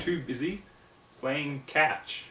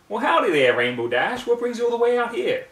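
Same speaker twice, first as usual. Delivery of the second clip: loud, high country greeting; calling out; 10 semitones higher, 7 dB louder than usual. Acted. Applebloom calls out to Rainbow Dash, loud and high. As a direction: call across the field, cheery and loud. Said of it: "Applebloom called out".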